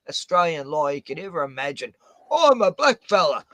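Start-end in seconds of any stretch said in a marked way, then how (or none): 2.3-3.4 mocking quote. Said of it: "He's making out he is".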